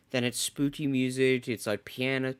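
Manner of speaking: soft hushed narration. Shown as a demonstration. Hushed play-by-play of scene.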